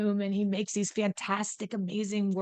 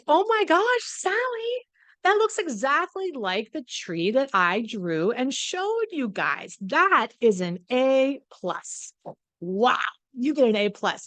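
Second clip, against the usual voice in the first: gushing teacher; 2 semitones higher than usual. Retold or imitated. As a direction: gush over the star pupil like a beaming teacher. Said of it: "And the teacher goes".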